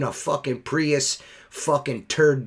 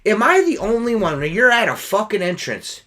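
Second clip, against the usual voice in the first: heated, higher-pitched indignation at the start, easing slightly; retold exasperated rant; 4 semitones higher, 4 dB louder than usual. Window cleaner berating customer blocking on one door, retold exasperated rant. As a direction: argue the obvious in exasperation. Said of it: "I just lost it".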